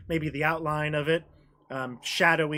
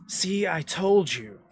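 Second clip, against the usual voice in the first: dragon voice; 3 semitones lower than usual. Acted. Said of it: "Arvea Churus says".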